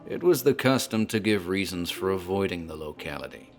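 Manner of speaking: measured, ominous storyteller's voice over music; story narration. A narrator's reading. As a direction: draw the stranger into a dark tale, unhurried. Bartender narrates the Dunwich tale.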